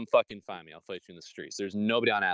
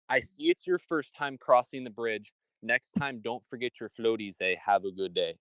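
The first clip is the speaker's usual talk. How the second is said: toll booth guy retold slowly. Retelling the toll man's joke to a friend, slowed down. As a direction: spell out his words slowly, lightly voiced. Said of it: "he said".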